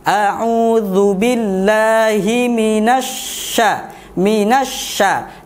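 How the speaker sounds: minasya with breathy spreading sh; spread shin. Shown as a demonstration. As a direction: let air flow on sh in minasya. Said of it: "hembusan nafas".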